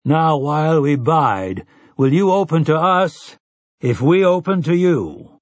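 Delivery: a folk elder intoning the ritual; solemn townsfolk elder. Acted. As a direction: ask it like an old village rite.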